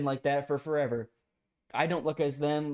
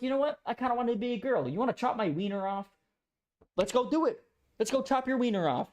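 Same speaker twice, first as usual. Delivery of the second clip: higher, mocking voice of a swayed kid; mock child voice; 6 semitones higher than usual. Mocking a child persuaded by his parents, higher mock voice. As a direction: ham up a kid talked into it. Voicing a confused child's decision.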